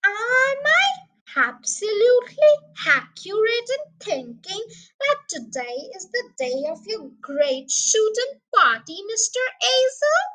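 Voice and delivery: slow, officious questioning, swinging high; ponderous police sergeant. Acted. Sergeant asks Mister Hazel about his shooting party, ponderously. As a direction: stretch out each grand word like a self-important sergeant.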